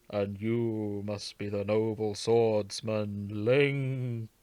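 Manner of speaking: put-on slow, stately old sage greeting; a lightly voiced ancient chief, measured and slow.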